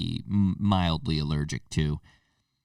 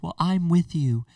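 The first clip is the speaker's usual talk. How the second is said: much higher mock girlfriend voice; imitating girlfriend; 12 semitones higher, 4 dB louder than usual. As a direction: parody the girlfriend's sympathy in a put-on voice. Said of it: "She's like".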